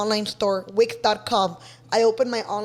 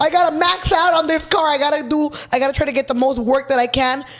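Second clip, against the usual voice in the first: eager hustle. Retold or imitated. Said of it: "I was like".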